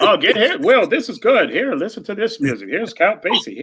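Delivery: playful mock of a generous buddy; lightly voiced older friend pushing gifts; imitating B B. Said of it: "he'll be like".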